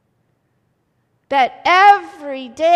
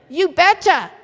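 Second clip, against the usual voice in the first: louder Minnesota "You betcha" with a falling end; folksy Minnesota "You betcha"; Minnesota accent; 2 semitones higher, 7 dB louder than usual. Shown as a demonstration. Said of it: "That's what they say in Minnesota".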